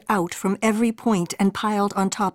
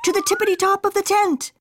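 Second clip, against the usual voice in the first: rising up; 12 semitones higher, faster than usual. A narrator's reading. Rising with Scipito.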